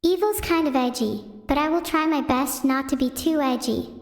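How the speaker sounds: ordinary talk, nothing marked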